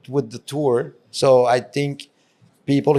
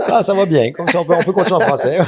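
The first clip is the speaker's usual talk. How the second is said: French spoken with accent; 5 semitones higher, 6 dB louder than usual. Real, not acted. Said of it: "my French".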